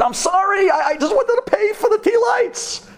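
high, laughing-crying panicked apology; hammed-up frightened apology to the shouting old man; mock panic. Rabbi yelled at in Arabic.

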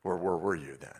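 low, muttered sarcasm, yeah right; quiet, skeptical scoff; sarcastic doubt. Retold or imitated. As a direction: scoff at the voice in disbelief. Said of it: "my first thought was a little".

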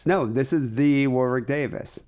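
"the" stressed and stretched as "thee". Real, not acted. Insisting to co-host it is the real one, "the" stressed as "thee". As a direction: lean slowly on "the", said as "thee".

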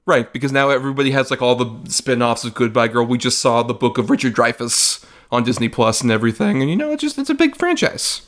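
mock-serious hype of a flop; sarcastic. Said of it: "we're being, uh, sarcastic".

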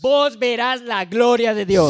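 slow, loud echo of the promise; match the preacher's full force; preaching loud. Real, not acted. Interpreter echoing the preacher to the church, loud and slow.

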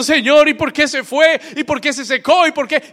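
high-pitched mock lament to God; acted tearful plea. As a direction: plead as a distraught believer, without real tears. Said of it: "Y tú estás llorando, diciendo". (súplica llorosa actuada)

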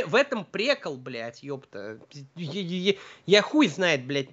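ordinary talk

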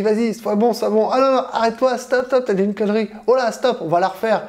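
a hint of a nervous inner voice; lightly voiced self-critic scolding. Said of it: "votre petite voix intérieure qui vous dit".

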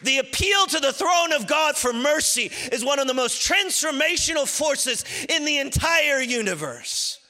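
high, intense preacher's voice; full-force preaching. Acted. Preacher urging listeners to resist temptation, full-force high preaching. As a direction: climb to a high, driving cry.

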